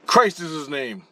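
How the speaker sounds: a hint of a solemn pronouncement; voice of Jesus. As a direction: announce it as a retold Jesus, unhurried. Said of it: "Like that, to me".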